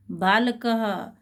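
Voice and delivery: careful syllable-by-syllable बालकः; slow Sanskrit demo. Shown as a demonstration. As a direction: model बालकः slowly for the class. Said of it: "तो देखिए कैसे बोलेंगे इनको".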